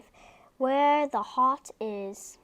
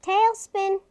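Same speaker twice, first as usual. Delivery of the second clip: stern, loud, higher call of the name; strictest voice; 7 semitones higher, 7 dB louder than usual. Acted. Boy scolding his puppy, strict and loud. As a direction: scold him like a strict teacher. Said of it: "I say in my strictest voice".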